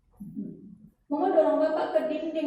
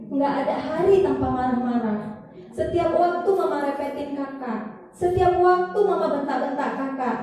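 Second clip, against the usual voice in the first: put-on a wounded child pouring out grievances, pitched up and drawn out; hurt child's complaint; 4 semitones higher than usual. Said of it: "Katanya seperti itu". (keluhan anak yang terluka, pelan, suara lebih tinggi)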